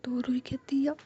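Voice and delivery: ordinary delivery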